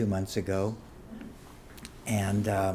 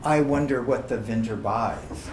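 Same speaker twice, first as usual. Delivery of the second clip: poem recitation. Acted. Poet quoting old verse about wine to an audience, recitation. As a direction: recite the verse in measured phrases.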